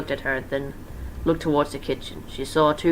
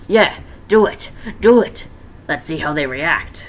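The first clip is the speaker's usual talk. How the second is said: eager Freddy; 6 dB louder than usual. Acted. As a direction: urge them gleefully. Freddy urging, voiced.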